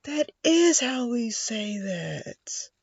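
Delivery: "That is how we say that" drawn out high and slow; slow high realization. Retold or imitated. A learner repeating the line, high and drawn out. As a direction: stretch it out in amazed realization.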